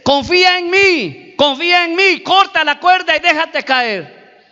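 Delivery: a hint of a calling, insistent voice; voice from above. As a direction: urge the climber from above. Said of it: "le dice".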